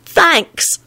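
put-on high, small child's thanks; tearful thanks. A narrator's reading. Timothy moved by Quentin's offer, tearful. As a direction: thank him high, near tears. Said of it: "Timothy started sniffing".

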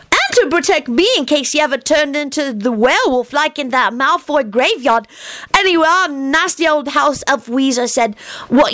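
put-on high, earnest childish voice; a little boy explaining things very seriously; young Teddy. A narrator's reading. Narrator voicing Teddy explaining to grown-ups, high childish earnest.

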